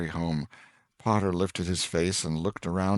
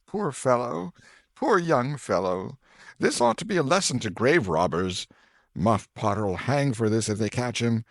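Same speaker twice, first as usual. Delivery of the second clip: a lightly voiced villager, higher; townsfolk murmuring; 5 semitones higher than usual. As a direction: pity and gossip in the crowd. Crowd remarks at the grave.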